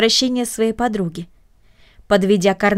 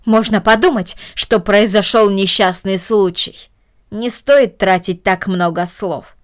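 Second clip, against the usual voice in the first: stern aunt; 2 semitones lower than usual. Acted. Aunt scolds Cornelie.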